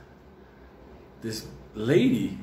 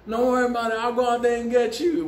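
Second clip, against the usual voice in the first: mock reassuring big guy; 9 semitones higher than usual. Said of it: "big guy reassuring kids".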